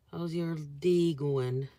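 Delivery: slow, light Canadian accent; Toronto-like Canadian accent. Shown as a demonstration. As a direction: stretch it with a hint of Toronto accent. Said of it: "A little accent".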